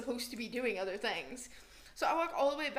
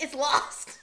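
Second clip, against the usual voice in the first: laughing flat reply; 3 semitones higher, 9 dB louder than usual. Retold or imitated. Telling manager bike is lost.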